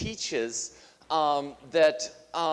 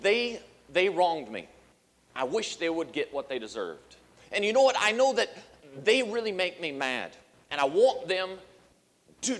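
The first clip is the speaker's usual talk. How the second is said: resentful attitude; 3 semitones higher than usual. Retold or imitated. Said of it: "and that's your attitude".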